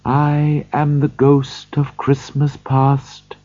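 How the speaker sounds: slow, gentle ghostly voice; soft, gentle voice. Acted. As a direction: speak softly like a kind spirit. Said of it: "in a soft, gentle voice".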